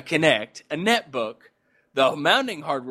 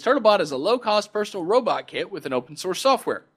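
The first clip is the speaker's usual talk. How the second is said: announcer voice; 4 semitones higher than usual. Acted. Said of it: "My announcer voice is getting better".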